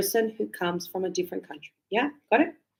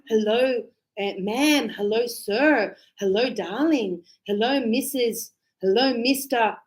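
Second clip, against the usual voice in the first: polite greeting. Shown as a demonstration. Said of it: "So you go".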